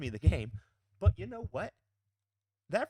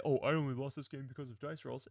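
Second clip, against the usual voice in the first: mock whiner. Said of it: "cry and bitch and moan".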